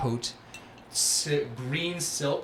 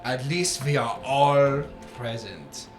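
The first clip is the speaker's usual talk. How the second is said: Oberon's entrance; 3 semitones higher, 8 dB louder than usual. Acted. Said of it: "you hear".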